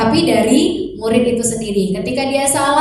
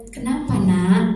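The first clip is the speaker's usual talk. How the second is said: calm mother. Shown as a demonstration. Mother calmly asks son what happened. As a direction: ask gently, staying calm. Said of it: "tenang dulu".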